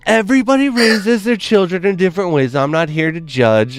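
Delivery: high, prim, carefully polite mother voice; polite restrained mom. Retold or imitated. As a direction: bite back your judgment like a proper suburban mom. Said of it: "she was like".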